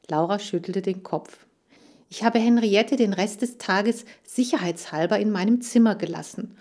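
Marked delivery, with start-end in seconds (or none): 2.1-6.6 grimly. Acted. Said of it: "fügte sie grimmig hinzu".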